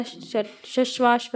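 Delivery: श, शश्वाश drawn out slowly; slow sounding out. Shown as a demonstration. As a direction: stretch the श sounds for the class. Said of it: "तस्तरी में श". (धीरे धीरे श की ध्वनि)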